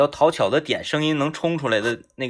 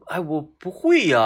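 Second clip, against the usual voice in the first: feigned helplessness; slower than usual. Pretend. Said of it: "装，说我".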